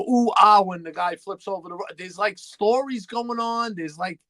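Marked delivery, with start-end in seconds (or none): 0.0-0.6 crowd ooh and ah. Retold or imitated. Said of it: "waiting there to go".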